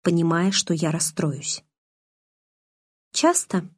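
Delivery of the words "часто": resigned sigh. A narrator's reading. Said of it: "обречённо вздохнула я".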